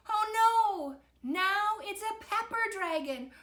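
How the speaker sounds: high, loud dismay; alarmed cry. A narrator's reading. Victor spots a pepper dragon, alarmed cry. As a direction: cry out in panic at danger.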